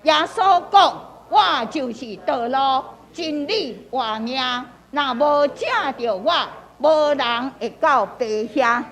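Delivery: deliberate phrases with lifted openings; group-leading scripture reading. Shown as a demonstration. Pastor leading the group in reading aloud, measured recitation. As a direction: lead everyone through the verse, phrase by phrase. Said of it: "来，搁一届".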